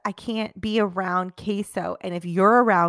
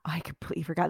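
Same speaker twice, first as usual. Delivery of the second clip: whisper; 6 dB quieter, faster than usual. Real, not acted. Hushed aside.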